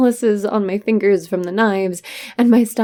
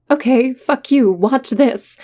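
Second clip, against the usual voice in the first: louder, higher defiant retort; 4 semitones higher, 3 dB louder than usual. Retold or imitated. Hurt younger sibling recalls answering the brother's rejection, defiant. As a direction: throw down a challenge, voice lifted.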